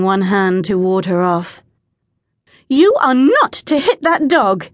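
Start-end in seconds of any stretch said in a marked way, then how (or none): 2.7-4.7 high-pitched, indignant command; scolding, pitched well up; snapped. A narrator's reading. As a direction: snap it as a firm reprimand. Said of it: "Angel snapped".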